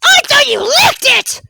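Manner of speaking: high, loud, drawn-out disbelief; mock amazement. Teasing the lawnmower about its job, high mock amazement. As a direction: squeal in fake astonishment.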